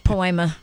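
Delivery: "poema" said po-AY-ma, falling at the end; Spanish pronunciation. Shown as a demonstration. Host giving the word in Spanish, "poema" as po-AY-ma. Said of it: "And in Spanish".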